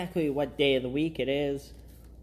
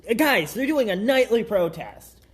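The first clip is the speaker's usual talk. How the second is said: higher, emphatic disbelief; incredulous; 6 semitones higher, 5 dB louder than usual. Real, not acted. Co-host echoing news of a nightly protest, incredulous. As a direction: exclaim it as if you can't believe it.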